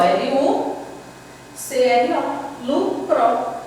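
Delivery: LUCRO said in two separate beats, lu, cro; split into syllables. Shown as a demonstration. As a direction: break lucro slowly into lu - cro. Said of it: "do jeito que você pronuncia".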